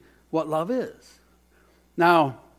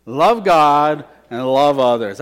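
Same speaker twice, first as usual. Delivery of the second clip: slow, louder unison recital; loud call and response; 7 dB louder, slower than usual. Shown as a demonstration. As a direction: lead the room in saying it. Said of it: "Can you say that with me?".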